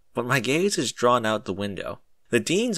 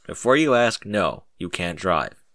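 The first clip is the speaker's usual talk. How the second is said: flat; 3 semitones lower than usual. Acted. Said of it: "he says flatly".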